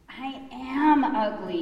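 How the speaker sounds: duckling wailing about his looks, high and loud; crying out. Acted. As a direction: wail it out slowly like a hurt child. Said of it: "he cried".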